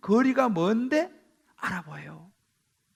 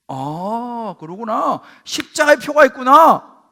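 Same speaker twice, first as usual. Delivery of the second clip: mock God's reply; 13 dB louder, slower than usual. Preacher voicing God as he accepts the sign, loud and approving.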